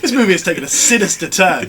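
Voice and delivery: loud, high mock-dramatic line through laughter; mock ominous, laughing. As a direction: hams up the sinister twist while laughing. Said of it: "You think".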